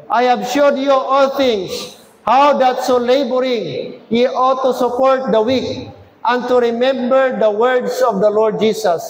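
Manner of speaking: slow, measured recitation; scripture reading aloud. Real, not acted. Preacher leads church reading a Bible verse, slow and measured. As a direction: read it out deliberately, phrase by phrase.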